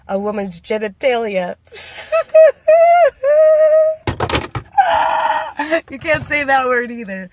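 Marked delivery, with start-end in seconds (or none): 1.6-5.8 a high, loud shrieking burst of laughter. Real, not acted. Laughing at her own rude remark, a loud shrieking laugh.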